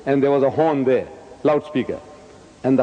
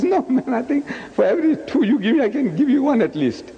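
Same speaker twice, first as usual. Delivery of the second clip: high, feisty comeback; acted fighter's confidence; retold defiance; 8 semitones higher than usual. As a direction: square up with a cocky higher voice. Acts out his bold new attitude.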